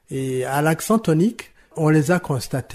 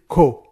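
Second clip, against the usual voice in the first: "co" lengthened and louder; "co" said alone with a firm accent; stressed syllable; 4 dB louder than usual. Shown as a demonstration. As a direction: hit the syllable "co" clearly. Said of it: "ça se trouve sur".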